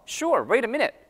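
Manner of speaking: quick, linked American reply; casual American English; American accent. Shown as a demonstration. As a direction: answer like an American, "wait a" flapped into "wayda". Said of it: "굉장히 빠르죠?".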